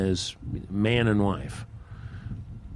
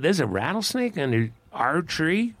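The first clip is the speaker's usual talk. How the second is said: higher-pitched startled question; mild surprise; 6 semitones higher than usual. Acted. Mister Raven questioning his wife about the snake, mildly surprised. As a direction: ask it in mild disbelief.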